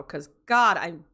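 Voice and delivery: words stretched by a yawn. Real, not acted. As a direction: talk through a big yawn. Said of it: "yawning and I hate that".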